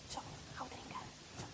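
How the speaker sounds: soft hurried whisper. Acted. Girl sneaking a drink at home, whisper. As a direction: keep it secret from mother.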